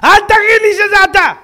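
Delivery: high, loud disbelief; shocked cry; astonished exclamation. Acted. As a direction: rabbi stunned at recognition. Rabbi astonished at recognition.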